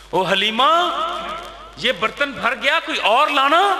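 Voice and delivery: husband calling Halima from the yard. Acted. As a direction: shout for the next pot. Husband calling wife from outside.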